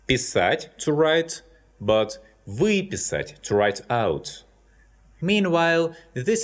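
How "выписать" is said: выписать with the stress on вы; выписать, hit the first syllable вы; stressed prefix. Shown as a demonstration. Teacher to students demonstrating выписать with stress on вы. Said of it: "this prefix is stressed".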